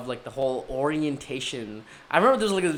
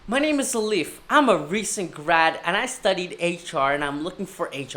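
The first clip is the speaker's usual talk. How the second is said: eager job pitch; 3 dB louder than usual. Retold or imitated. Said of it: "be like".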